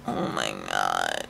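breathless unvoiced oh my God; dismayed whisper. Real, not acted. Finding the duplicate book, a slow stunned whisper.

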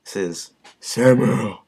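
imitating Sam Rowe. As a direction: say it slow like his recording. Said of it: "That's how he does it".

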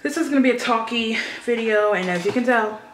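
echoey bare room sound; hallway echo. Real, not acted. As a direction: voice bouncing around an empty room. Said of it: "there's an echo in here".

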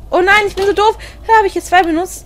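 loud high dismayed wail; dismayed cry. Real, not acted. Player realizing she wasted batteries, loud high dismay. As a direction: cry out at her own mistake.

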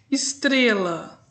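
Estrela stretched out slowly, syllable by syllable; teacher sounding out Estrela in slow syllables; slow syllable split. Shown as a demonstration. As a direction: pull the word apart slowly for pupils. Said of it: "três sílabas".

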